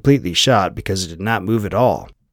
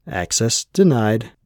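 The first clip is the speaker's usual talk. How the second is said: slow, synthetic announcement voice; computer voice; slower than usual. Acted. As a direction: read it like an automated system. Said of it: "a fake-sounding female voice said".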